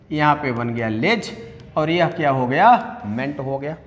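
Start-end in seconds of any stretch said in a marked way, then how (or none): 3.1-3.4 "मेंट" said as a separate syllable; syllable pronounced alone. Shown as a demonstration. Teacher breaks acknowledgement into syllables, isolated syllable "मेंट". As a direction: sound out "मेंट" on its own. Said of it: "हमने उच्चारण क्या किया".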